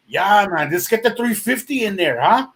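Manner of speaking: easygoing Canadian accent, lightly imitated. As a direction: imitate a Canadian car guy, mildly. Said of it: "that's how he's talking".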